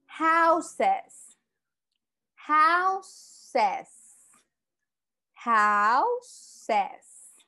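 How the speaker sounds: Houses, loud, with a clear es ending; model pronunciation. Shown as a demonstration. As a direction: stress the final es of Houses. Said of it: "Como pueden ver y pueden escuchar". (pronuncia Houses con la terminación es bien marcada)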